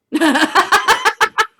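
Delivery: loud, high burst of laughter; shrieking laugh; high cackling laugh. Real, not acted. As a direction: crack up at the joke. Laughs at own bit.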